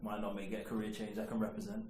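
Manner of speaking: quiet aside. Real, not acted. Mumbled joking aside.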